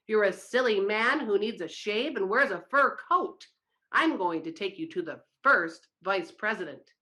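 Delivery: a touch of lingering anger; still furious. Acted. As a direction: keep the fury under the words. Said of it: "He was furious".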